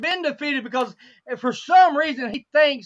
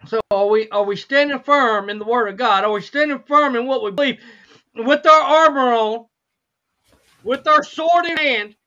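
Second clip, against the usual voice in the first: preaching; 5 dB louder than usual. Real, not acted. Preaching to congregation.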